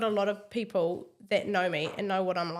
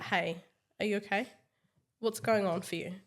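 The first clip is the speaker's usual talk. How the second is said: calm, gentle check on someone; faster than usual. Retold or imitated. Leader checking on an upset team member, calmly. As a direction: ask it evenly, without pressure. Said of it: "I just come to them calmly".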